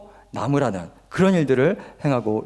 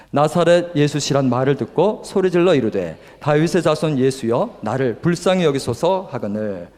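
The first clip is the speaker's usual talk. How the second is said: firm congregational Bible reading; measured verse recitation; scripture reading. Acted. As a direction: read the verse out steadily, dropping at the close. Reads the Bible verse aloud.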